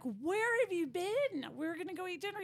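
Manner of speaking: a hint of scolding worry; mock urgent question. Retold asking late rancher.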